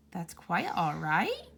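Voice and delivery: slow, wondering question rising at the end; disbelieving. Acted. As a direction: savour it as if it can't be true. Good marvels at the kind words.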